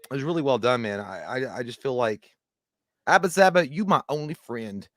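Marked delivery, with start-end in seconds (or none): 3.1-4.9 quoted movie line. Retold or imitated. Quoting movie line, high loud.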